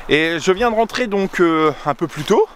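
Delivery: out of breath from running. Real, not acted. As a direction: talk while catching your breath. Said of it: "C'est pour ça que je suis essoufflé".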